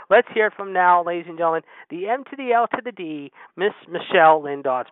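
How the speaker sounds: ring-announcer style build-up; booming radio host introduction; announcer intro. Acted. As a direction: hype the guest like a ring announcer.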